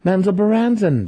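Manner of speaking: high, loud insistent cry; cried out. A narrator's reading. Cleric crying the city's name at confused Driz. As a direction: correct him forcefully. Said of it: "the cleric cried".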